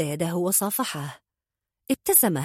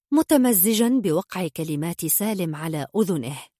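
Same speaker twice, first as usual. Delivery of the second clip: ordinary delivery, nothing marked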